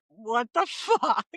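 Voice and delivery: slow, laughing disbelief; drawn out through a laugh. Retold or imitated. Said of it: "I was just like".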